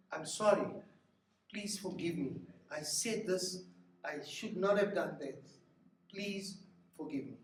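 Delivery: soft, earnest plea for forgiveness; mean every word of the sorry; sincere apology. Shown as a demonstration. Pastor models a sincere apology to a spouse, softly. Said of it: "It doesn't work that way".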